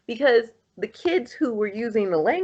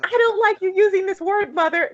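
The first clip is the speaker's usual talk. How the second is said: higher-pitched imitation of an indignant objection; mock scolding, pitched well up; retold argument; 12 semitones higher, 4 dB louder than usual. Friend scolds her mother over a word, retold as high-pitched indignant protest. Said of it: "they got into an argument".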